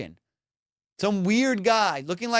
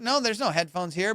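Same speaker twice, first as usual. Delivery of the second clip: quick imitated denial; mildly hurried, brushing him off; said fast. Lady denying she has the headphones, a touch hurried. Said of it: "she said it so fast".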